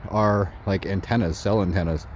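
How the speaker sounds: ordinary talk, nothing marked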